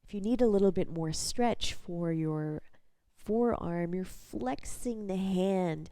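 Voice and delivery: guided body scan. Real, not acted. Instructor leading a lying-down body scan, calm guided practice voice. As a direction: guide gently with long pauses between instructions.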